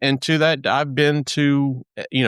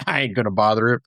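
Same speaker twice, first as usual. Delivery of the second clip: quick, laughing self-mocking aside; 2 semitones lower, faster than usual. Host retelling her hesitation to ask the ranger, laughing. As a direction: laugh off the idea, fast. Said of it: "I'm like".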